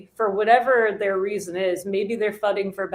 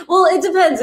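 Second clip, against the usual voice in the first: laughing, pitch way up; 9 semitones higher, 8 dB louder than usual. Real, not acted. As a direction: talk through a laugh. Laughing at the comment.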